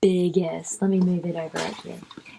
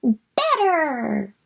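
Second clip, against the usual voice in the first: bug voice; 5 semitones higher than usual. Shown as a demonstration. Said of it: "guess what he says".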